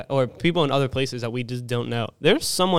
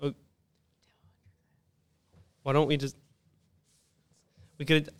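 whispering; 7 dB quieter than usual. Real, not acted. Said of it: "why are we whisper".

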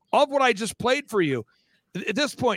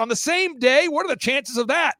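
acted amazement; 6 semitones higher than usual. Acts caller amazed at coincidence.

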